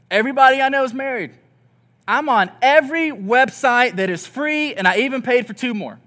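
1 exasperated complaint. Retold or imitated. Single person complaining.

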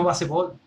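"baseball" dicho ba-se-bol; como se escribe. Shown as a demonstration. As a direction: lee "baseball" sílaba por sílaba en español. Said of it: "así como se escucha". ("baseball" con a clara y e intermedia)

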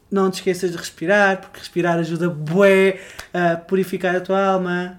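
a hint of a preachy life coach. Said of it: "com esta tom de voz".

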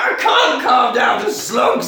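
high, loud mock panic; frantic caller, hammed up and drawn out; hysterical wife. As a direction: shout back in comic hysterics. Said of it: "clearly hysterical wife".

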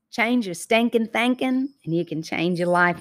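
Southern accent slipping out; natural Southern accent on a catchphrase. Real, not acted. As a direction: let a Southern twang come through. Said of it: "hear that Southern accent come out".

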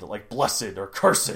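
cursed said as curs-ed, two syllables; fancy two-syllable cursed. Shown as a demonstration. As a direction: say blessed and cursed as bless-ed, curs-ed. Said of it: "make it sound fancy".

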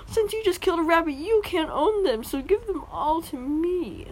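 hammed-up whiny mom voice; bad entitled mom voice. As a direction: imitate her greedy logic. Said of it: "That's a bad voice".

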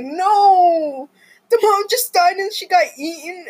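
a high, loud retold "No!"; mock scream. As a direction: yell it like the gore just hit you. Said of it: "I was like".

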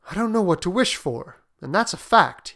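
mildly hesitant admission; slowly. Acted. Father unsure what to wish for, mildly hesitant. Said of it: "he said slowly".

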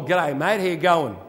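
casual Aussie greeting; loose, matey g'day; informal slang. Acted. Showing informal English to listeners, casual. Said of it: "if you speak informal".

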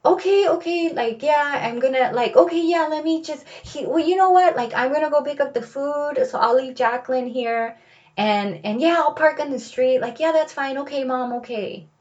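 high, flustered stammering son; frazzled little boy. Retold or imitated. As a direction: babble like a kid caught out. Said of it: "all frazzled".

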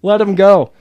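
loud, high, drawn-out mock plea; exasperated plea. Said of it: "And I'm like".

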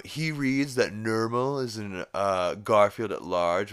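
lightly put-on know-it-all correction; mock pedantry. Wiki writer correcting a Garfield detail, mock pedantic.

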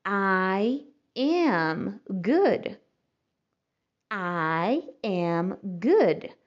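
"I am good" said very slowly; slow model. Shown as a demonstration. Teacher models the answer slowly for learners. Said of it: "Se você quiser dizer".

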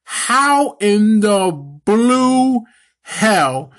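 slow, loud, drawn-out outrage; outraged. Real, not acted. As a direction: stretch it out in disbelief, pitched high. Ranting about WWE booking.

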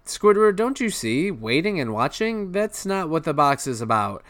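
high excited SpongeBob voice; eager cartoon sponge voice. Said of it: "But SpongeBob's like".

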